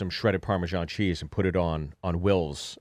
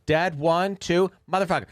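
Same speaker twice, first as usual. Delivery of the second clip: put-on kid counting then swearing; 10 semitones higher, 3 dB louder than usual. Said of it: "my Kent goes".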